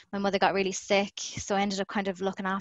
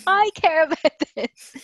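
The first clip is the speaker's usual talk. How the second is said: higher and louder, indignant mock protest; insistent retort; 9 semitones higher, 8 dB louder than usual. Answering the dismissive cameraman, a loud indignant reply. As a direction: fire it right back at him.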